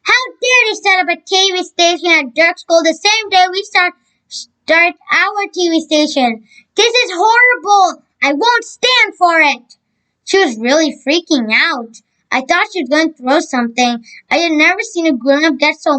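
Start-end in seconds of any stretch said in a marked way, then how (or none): 0.0-9.8 teacher outraged at the rival school, fury building; outraged shout. Acted. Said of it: "Then she started shouting".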